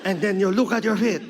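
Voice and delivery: accented grandmother, slow and mock-eerie; Lola Tinay. Grandmother describes haunting her grandson, deliberate and mock-eerie. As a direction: tell it like a ghostly grandmother's threat. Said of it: "She's like".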